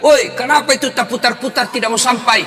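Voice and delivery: high, loud heckle; retold shout. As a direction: act out a student yelling at the imam. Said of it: "dia teriak".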